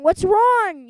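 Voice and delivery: the principal demanding an answer; full bellow; bigger yell. Acted. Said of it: "yelled Mister Krupp".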